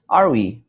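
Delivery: WE lifted upward as a question; rising question intonation. Shown as a demonstration. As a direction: ask it, pitch climbing on WE. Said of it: "my pitch got higher".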